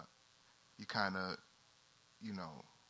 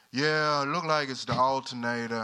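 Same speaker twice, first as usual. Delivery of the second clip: loud country mechanic drawling the diagnosis; country accent; 7 dB louder than usual. Retold or imitated. Country mechanic reporting to his customer, loud country accent. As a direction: imitate a country mechanic, loudly. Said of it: "I would adopt a country accent".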